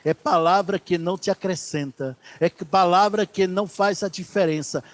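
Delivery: ordinary talk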